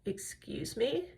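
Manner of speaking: soft, slow, rising disbelief; mock affronted. Retold affronted reaction to insult.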